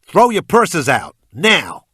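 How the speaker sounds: put-on very loud, high American-accented shout; slow, forceful yelled command; shouted order. A narrator's reading. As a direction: shout it into the back like a robber. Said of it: "I shouted into the back".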